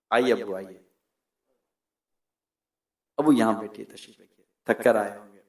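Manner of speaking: low, gentle deference; respectful welcome. Acted. Son seating his tired father at home, respectful welcome.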